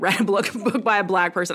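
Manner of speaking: talking through a light laugh. Real, not acted. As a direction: let amusement break into the words. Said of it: "I'm laughing 'cause it's so stupid".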